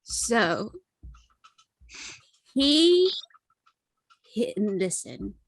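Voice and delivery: halting, rambling tipsy confession. Acted. High character struggles to tell story.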